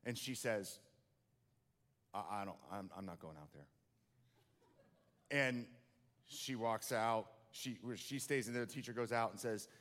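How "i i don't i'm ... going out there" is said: very soft, low, small scared voice; scared refusal. Acted. Girl in principal's office refusing to face her parent, whispery and small. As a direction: shrink away and barely say it.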